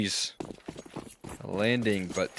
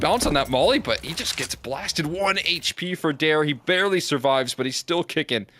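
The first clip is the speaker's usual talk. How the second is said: excited play-by-play; 5 semitones higher than usual. Real, not acted. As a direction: call the fight with growing excitement. Caster hyping a clutch fight.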